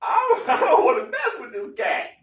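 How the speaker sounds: laughing refusal; chuckling retreat; backing off. Retold or imitated. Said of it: "He was like".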